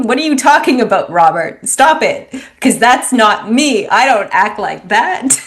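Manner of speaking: loud, high and outraged, imitating the father in his head; indignant dad voice. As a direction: bristle like a dad who refuses to see himself. Inner voice of dad protesting.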